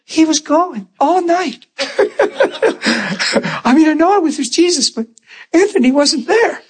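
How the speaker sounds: giggling impression of the wife; laughing retelling. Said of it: "She said".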